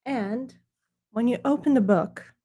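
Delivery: lightly put-on snooty British accent. Presenting his book to viewers in a hammed-up snooty British accent. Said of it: "British accent to deliver".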